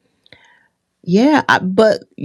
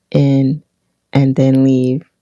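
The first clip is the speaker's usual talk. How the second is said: ordinary talk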